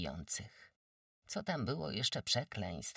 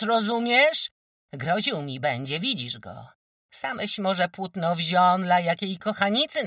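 defiant shout; 9 semitones higher, 9 dB louder than usual. Acted. Woman defying the wójt.

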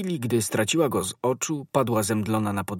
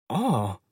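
short pained "oh", rising then falling; stricken groan. A narrator's reading. Musketeer hit by the news like a bullet, groaning. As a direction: moan as if struck. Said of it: "jęknął Athos jak rażony kulą w serce".

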